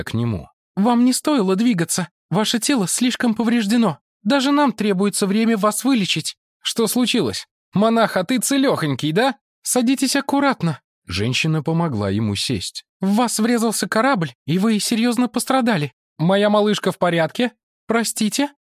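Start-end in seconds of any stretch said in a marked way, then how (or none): 0.8-6.4 high woman's voice; woman character. Acted. 6.6-9.4 put-on high, lively young man's voice; Chen Ren voice. 9.6-10.8 high woman's voice; woman character. Acted. 13.0-17.5 high character voice. Acted. 17.9-18.5 high woman's voice; woman character. Acted.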